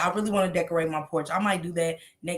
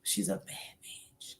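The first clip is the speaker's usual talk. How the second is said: slow unvoiced whisper; 14 dB quieter, slower than usual. Real, not acted. Repeating praise of the creator, slow whisper. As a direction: breathe it out slowly.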